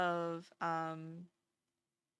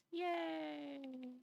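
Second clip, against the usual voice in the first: cheer; 7 semitones higher, 6 dB quieter than usual. Real, not acted. Cheering before continuing the reading.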